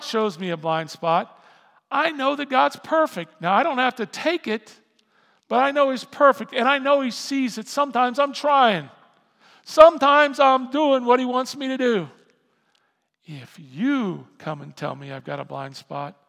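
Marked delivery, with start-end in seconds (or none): 1.9-12.1 loud, high preaching defence; raised, insistent voice pleading your effort; heated self-justification. Acted. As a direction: protest your case at full volume. Preacher building up mock self-defence.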